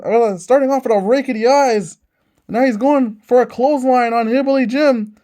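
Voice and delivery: fast, punchy ringside commentary; excited wrestling announcer calling the match; wrestling play-by-play. Acted. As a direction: call every move like a live TV commentator.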